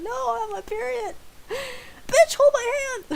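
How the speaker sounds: high, tearful mock wail building to a loud yell; imitated screaming. Roommate with period pains demanding a hand, mock screaming. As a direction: cry out the demand, hammed-up. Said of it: "she was screaming".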